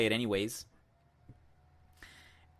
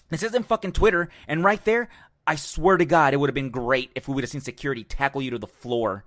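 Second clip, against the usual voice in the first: angry rant; 3 semitones higher, 4 dB louder than usual. Real, not acted. Telling off the fan who heckled Thurman, loud and furious. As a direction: tear into him for real.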